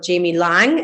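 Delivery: "Lang" rhyming with hang; short A and a ng ending in "Lang"; common mispronunciation. Shown as a demonstration. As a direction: say "Lang" as it is spelt. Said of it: "No one says my second name right".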